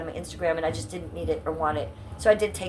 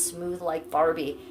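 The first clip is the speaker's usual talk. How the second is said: slow and deliberate; slower than usual. Real, not acted. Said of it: "pinned comment that says".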